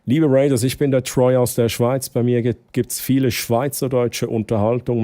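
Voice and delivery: "ich bin der Troy aus der Schweiz" in Standard German, "Schweiz" as Schwaitz. Shown as a demonstration. Troy repeats his intro for the raiders in Standard German. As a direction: switch to clear Standard German for the guests. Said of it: "ich mach kurz auf Hochdeutsch".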